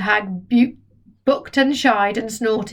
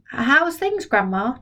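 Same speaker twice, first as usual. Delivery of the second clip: put-on cheerful boy; 3 semitones higher, slower than usual. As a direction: cheer her up. George voiced.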